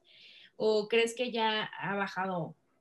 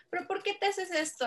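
imitating a classmate; 10 semitones higher than usual. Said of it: "uno de mis compañeros me dijo".

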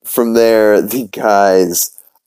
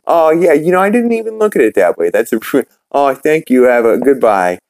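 high, fast, gushing goofy voice; Peter, dazzled; 6 semitones higher than usual. Acted. Peter talked out of the bar, high and gushing. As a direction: babble it high like a charmed fool. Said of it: "Peter walking out going".

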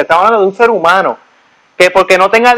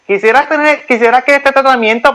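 higher, lightly voiced sales pitch; salesy dental assistant; 5 semitones higher than usual. Hygienist pushing a treatment on him, higher coaxing voice. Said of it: "dice, este".

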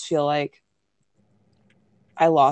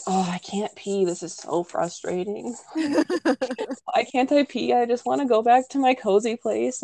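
laughing complaint; 6 semitones higher, slower than usual. Retold or imitated. Stuck on the toilet in labor.

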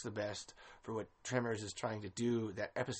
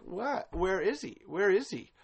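puzzled outcry; 6 semitones higher, 3 dB louder than usual. Retold or imitated. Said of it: "I'm sitting here like".

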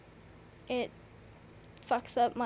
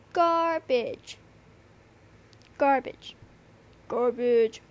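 loud repeated word; 9 dB louder, much slower than usual. Real, not acted. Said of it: "felt the need to repeat that".

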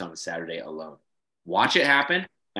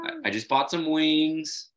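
mock buddy sweet-talk; 8 semitones higher, slower than usual. Host pretending to coax the technician over, hammed-up buddy voice. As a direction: lure him with beer, hammed up. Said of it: "gotta go over there and be like".

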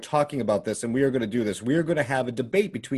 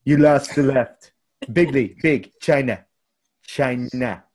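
slow, louder hammed-up Trump; 4 dB louder, slower than usual. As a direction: draw out each word like Trump at a rally. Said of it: "that sounded even better when I did it that way".

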